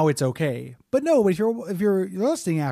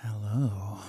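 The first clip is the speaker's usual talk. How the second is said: low, slow put-on growl; naughty boy voice; 7 semitones lower, 7 dB quieter than usual. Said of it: "is this the naughty boy voice".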